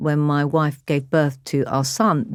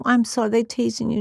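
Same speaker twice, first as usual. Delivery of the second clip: retold motherly sympathy; 6 semitones higher than usual. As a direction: comfort your child gently. Retold mother comforting teased daughter.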